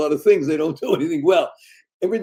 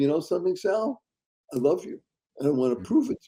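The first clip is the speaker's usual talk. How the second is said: tearful, words coming through tears; 7 dB quieter than usual. Retelling what the good Lord says to Sal, crying while speaking. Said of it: "I'm crying as I say this".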